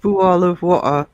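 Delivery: bottle and water with the middle t dropped; glottal-stop bottle of water; dropped-t pronunciation. Shown as a demonstration. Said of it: "Do people say".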